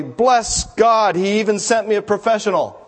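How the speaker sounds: high, excited mock shout of praise; shouting out loudly. A narrator's reading. Woman hugging the ex-convict who opened her car, high joyful shout. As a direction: cry it out high, like a hallelujah. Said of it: "started shouting out loudly".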